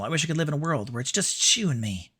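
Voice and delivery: lovestruck Southern girl, lightly put on; feminine Southern accent. Streamer reading Rinko's secret journal, feminine Southern accent. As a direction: read it as a Southern belle's diary. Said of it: "putting on a bit more of a".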